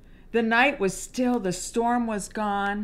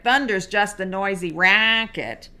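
a bit louder, brave duck; 4 dB louder than usual. Acted. Duck answers the thunder, a little louder. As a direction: declare it boldly over the storm. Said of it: "said loud as he could quack it".

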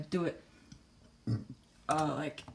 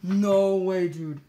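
shrieking jackpot winner; 2 semitones higher, 16 dB louder, slower than usual. Real, not acted. Friend opens surprise skin gift.

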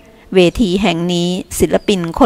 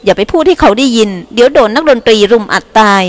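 lightly voiced teasing dancer; 4 semitones higher than usual. Dancer teases him about music.

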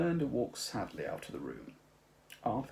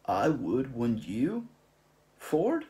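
louder, nudging question; prompting Zaphod; 5 semitones higher, 8 dB louder, slower than usual. Acted. Zaphod prompting Ford, louder and eager. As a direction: nudge Ford to agree. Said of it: "said Zaphod promptingly".

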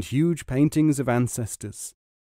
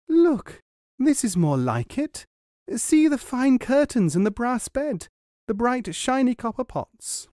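high, pleased wife's voice; high excited wife voice; delighted wife; 11 semitones higher than usual. A narrator's reading. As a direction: show off the new house proudly. Wife shows off the cottage.

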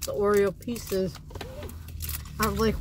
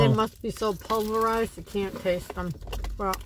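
talking through a mouthful; chewing while speaking; mouth full. Real, not acted. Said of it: "excuse me for talking with my mouth full".

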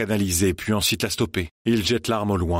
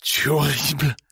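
toneless voice; 7 semitones higher than usual. Acted. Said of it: "d'une voix blanche".

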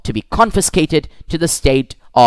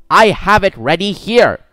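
higher-pitched, eager interjection; eager offer; 7 semitones higher, 4 dB louder than usual. A narrator's reading. Bassanio offering Shylock the money, eager. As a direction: pipe up eagerly, pitch well up.

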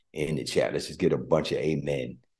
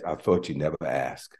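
tender reply. Retold or imitated. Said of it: "And he says".

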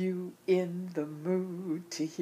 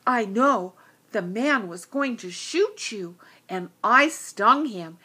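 proud bee; 6 dB louder than usual. Acted.

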